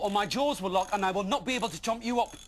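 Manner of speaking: high loud fake plea; mock pleading. Tom tricks the dragon, high false plea. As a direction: beg him in pretend panic. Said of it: "whimpered Tom once more".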